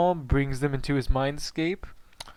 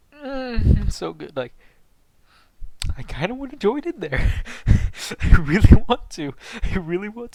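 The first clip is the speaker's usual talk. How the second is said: high, eager and loud; excited eagerness; 7 semitones higher, 8 dB louder than usual. Retold or imitated. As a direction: squeal like you want in. Excited by what they hear.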